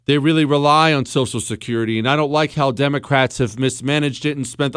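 mild mock candidate hedging; careful politician answer. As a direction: give the safe, hesitant campaign answer. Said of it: "that's what you should say".

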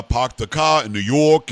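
light imitation of a New York and Boston accent; mock New York accent, R's dropped; northern US accent. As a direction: put on a bit of a Northeastern American accent. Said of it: "to the north they went like".

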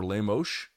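"Lemos" with final s as sh; Rio-style pronunciation. Shown as a demonstration. Explaining the hairdresser's Brazilian lesson, Rio-style pronunciation. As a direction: say "Lemos" ending in an sh sound. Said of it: "Rio de Janeiro accent where they say Lemos".

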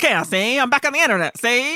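lightly voiced 1940s newsman; a hint of old-timey newspaper reporter; fast-talking reporter. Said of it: "he talks like a newspaper reporter from the nineteen forties".

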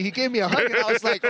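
ordinary delivery

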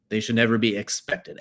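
firm stress on "expected". Shown as a demonstration. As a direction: lean on "expected" a little harder. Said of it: "Emphasis on the word expect".

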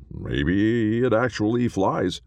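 high, slow airy voice for Chester. A narrator's reading. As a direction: lift into a light, wondering high voice.

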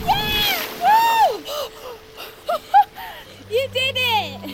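high, loud whooping cheer. Acted. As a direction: celebrate her plunge. Cheering in the sea.

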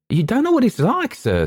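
very high, pleading warning; alarmed waiter holding someone back; frightened waiter. Acted. Frightened waiter stops Malcolm.

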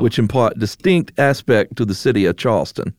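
put-on old-timey Mid-Atlantic accent, read formally. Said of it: "can you please read it in a Mid-Atlantic accent".

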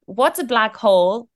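lightly voiced curious child, drawn out; child asking. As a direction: ask slowly, as a child would. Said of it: "the child was asking".

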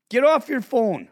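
a calmer repeat of the order to the mom; firm call. Retold or imitated. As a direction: repeat the order flatly, no longer screaming. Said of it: "So I yell out the window".

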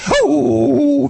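very high excited oh; high yelp of joy; happy dog hearing. Retold or imitated. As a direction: squeal it like a delighted puppy. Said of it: "The dog is hearing".

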